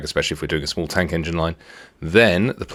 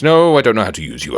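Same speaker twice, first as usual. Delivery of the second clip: exasperated outburst; 6 semitones higher, 6 dB louder than usual. Real, not acted. Scolding the game menu.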